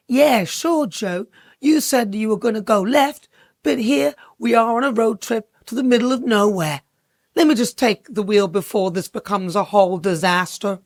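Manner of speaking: lightly voiced Kamala with a put-on accent; a hint of an accent, playing the exasperated sidekick. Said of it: "Sorry about the accent".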